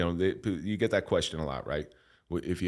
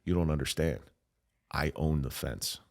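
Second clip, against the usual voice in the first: lightly voiced devil, slowing and dropping; devil's quiet reveal; 4 semitones lower, 4 dB quieter than usual. Devil reveals he owns fence.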